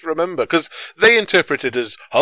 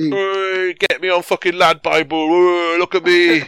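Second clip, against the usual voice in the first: higher, hammed-up rowdy lad; mad lad; 5 semitones higher, 4 dB louder than usual. Mad scientist begging for Lad Bible fame, laddish shouting. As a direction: show off like a boisterous lad. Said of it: "I'm also a mad lad".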